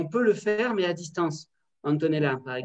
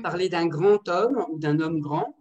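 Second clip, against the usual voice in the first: slow; 3 dB louder, slower than usual. Shown as a demonstration. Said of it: "la place de l'adjectif".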